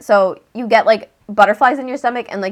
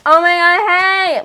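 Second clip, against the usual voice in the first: David; 7 semitones higher, 3 dB louder than usual. Retold or imitated. Voicing David's gushing greeting.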